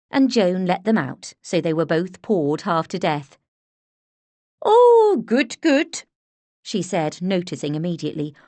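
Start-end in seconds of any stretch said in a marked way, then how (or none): 4.6-6.0 high, loud delighted exclaim; excited. A narrator's reading. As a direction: burst out pleased, much higher. Joan's excited greeting.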